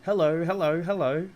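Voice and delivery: high, loud parrot greeting; talking parrot. A narrator's reading. Parrot in a tall cage greets the children, squawky mimicry. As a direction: call out like a parrot that mimics people. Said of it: "Suddenly the parrot said".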